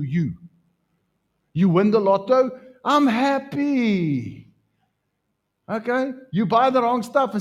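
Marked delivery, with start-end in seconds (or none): 2.8-4.5 drawn-out, high mock cheer; mock happy. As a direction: stretch out a hammed-up happy. Mock lottery winner quote.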